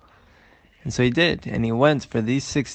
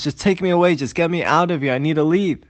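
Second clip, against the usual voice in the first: mildly panicked, higher-pitched plea; panicking; 5 semitones higher than usual. Acted. Shmulek pleading with the first carriage driver, mildly panicked. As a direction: beg urgently to be taken away. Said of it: "He's panicking".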